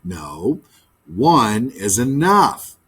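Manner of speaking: low, slow firm refusal; firm magpie. Acted. Magpie refusing the dove's advice, firm and slow. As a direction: put your foot down calmly. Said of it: "The magpie laid a twig".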